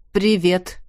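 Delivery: a strained, tight Привет in another voice; tense greeting. A narrator's reading. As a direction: answer the hello as if braced for trouble. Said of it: "Голос коллеги был очень напряжённый".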